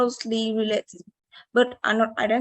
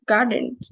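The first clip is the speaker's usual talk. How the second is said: GARden, first syllable louder; stress on first syllable; 4 dB louder than usual. Shown as a demonstration. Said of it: "the first syllable is stressed".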